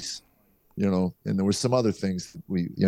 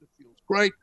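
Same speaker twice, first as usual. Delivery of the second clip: mock elated reply; 13 semitones higher than usual. Acting his elated answer to Crews.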